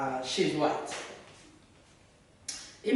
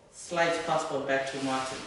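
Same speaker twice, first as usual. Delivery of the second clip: ordinary delivery, nothing marked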